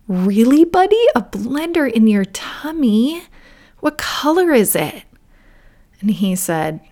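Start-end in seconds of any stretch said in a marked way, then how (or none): 0.1-5.0 higher, curious parent voice; encouraging, wide-eyed questioning; mock amazement. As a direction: react with wonder to a child. Mother voices her reaction to son.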